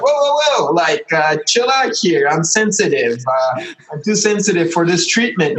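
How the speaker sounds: mock-panicked pleading to the spirit; alarmed protest. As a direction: squeak out a nervous plea to stop. Panicked self quoted to spirit.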